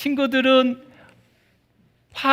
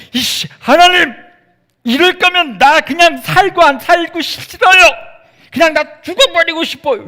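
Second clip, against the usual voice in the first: higher, louder mock tantrum; sulky whining; 8 semitones higher, 7 dB louder than usual. Jonah complaining to God, hammed-up tantrum. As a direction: whine at God like a sulking child. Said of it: "투정을 부리고 있어요".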